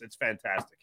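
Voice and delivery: ordinary talk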